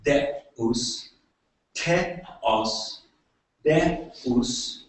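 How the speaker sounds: deus and teos split slowly as "deh-oos", "teh-os"; sounded-out syllables. Shown as a demonstration. Lecturer comparing words for God, deus and teos syllable by syllable. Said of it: "the word for God is".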